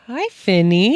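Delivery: high cooing voice for the cat; pet talk. Real, not acted. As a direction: coo at the kitty. Greeting the cat.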